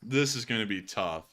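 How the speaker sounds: lightly voiced Putin, Russian accent; mumbling Russian bathroom attendant. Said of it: "hell of an improv skit".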